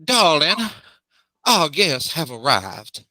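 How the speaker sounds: stately lady calling, slow and drawn out; a lightly voiced lady of the manor calling; calling up stairs. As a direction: call upstairs to her husband with poise. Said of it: "calls up the stairs".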